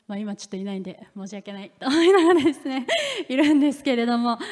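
fast, laughing apology. Real, not acted. Laughing apologizing to absent family.

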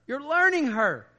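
"learning" swelled high and loud, slowly; emphatic LEARNING. Real, not acted. Preacher repeating the point to husbands, emphatic high, loud "learning". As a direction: punch and stretch "learning", pitch soaring.

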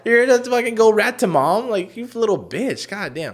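high-pitched mock outrage; retold scorn. Berating brother for ratting to mom, retold scorn. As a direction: scold the tattletale in disbelief.

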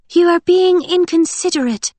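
put-on light, high, dreamy girl voice; airy and far-off young woman; Winter voice.

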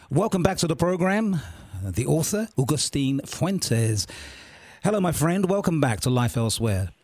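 slightly hoarse, frog in the throat; a little hoarse from a sore throat. Real, not acted. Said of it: "a little bit of a frog in the throat".

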